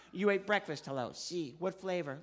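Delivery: ordinary talk, nothing marked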